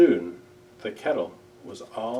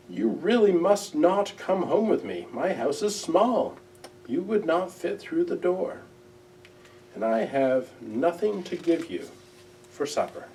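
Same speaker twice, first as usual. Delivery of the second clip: a lightly voiced, higher little owl; gentle Owl; 4 semitones higher than usual. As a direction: talk up to the moon like a shy friend. Owl talks to the moon.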